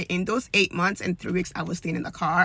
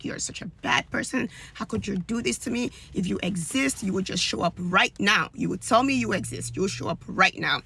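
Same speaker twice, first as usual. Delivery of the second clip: cursing God. Retold or imitated. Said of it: "literally cursing out this God".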